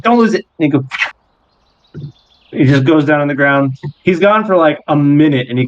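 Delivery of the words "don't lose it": high-pitched small creature voice; little creature's warning. Acted. Creature handing over his claw, high-pitched warning. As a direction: warn them in a high little voice. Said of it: "he's, he's like".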